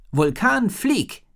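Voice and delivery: high, loud order to the dragon; girl ordering her fire dragon into the air; commanding. A narrator's reading. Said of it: "befahl sie".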